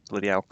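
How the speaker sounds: Bloody hell with the H of hell dropped, said as ell. Shown as a demonstration. Streamer to chat, showing the Yorkshire dropped H on hell. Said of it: "we just dropped the H".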